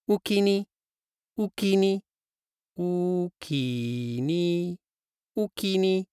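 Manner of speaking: Osaka dialect. Shown as a demonstration. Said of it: "Thanks in Osaka".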